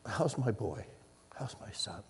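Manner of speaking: soft, hushed loving dad; tender father. Retold or imitated. Father comforting his feverish son, soft and tender. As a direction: murmur it like a father over a sick child. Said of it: "and he'd say".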